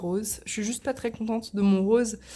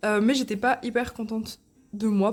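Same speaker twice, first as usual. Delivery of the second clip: hiccup breaking the words; talking through hiccups. Real, not acted. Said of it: "pardon, j'ai le hoquet".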